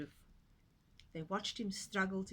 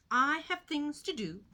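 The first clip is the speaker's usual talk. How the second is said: cheerful piglet; 7 semitones higher, 7 dB louder than usual. Acted. Little Pig speaking.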